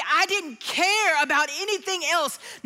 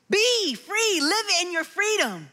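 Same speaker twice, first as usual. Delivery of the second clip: "Be free" said higher with a laugh; laughing joy; 5 semitones higher than usual. Shown as a demonstration.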